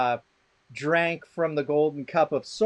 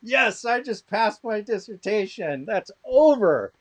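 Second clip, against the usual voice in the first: higher, gleeful mock celebration; retold elation; 5 semitones higher than usual. Student realizing the defense is won, re-enacted with elation. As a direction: celebrate inwardly, stretching the last words.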